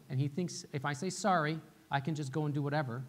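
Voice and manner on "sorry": child's token apology, imitated; a quick sorry to dodge trouble; insincere sorry. Little guy avoiding trouble, mimicked perfunctory apology. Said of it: "he just doesn't wanna get in trouble".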